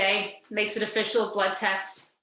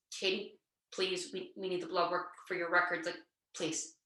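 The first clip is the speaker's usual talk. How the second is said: soft pleading; 4 semitones lower, 7 dB quieter than usual. Retold or imitated. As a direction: coax her gently, almost pleading. Nurse pleading with reluctant patient.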